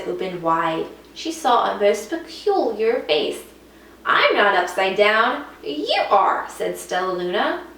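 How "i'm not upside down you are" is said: put-on young bat. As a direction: answer back firmly. Stella retorting.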